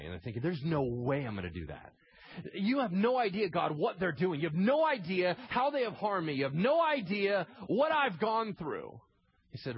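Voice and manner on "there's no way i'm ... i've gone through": loud, high, indignant outburst; blown-away protest. Retold or imitated. Wronged believer refusing to tell God yes, indignant. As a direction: protest to God with mounting exasperation. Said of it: "then they're blown away".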